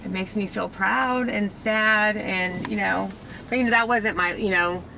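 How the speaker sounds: standing where she once worked, softly moved; quiet and emotional. Real, not acted. Emotional at her old workplace.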